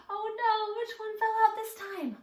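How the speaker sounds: high-pitched fast oh no; mock alarm. Storyteller to children, mock surprise. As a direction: play up the shock for the kids.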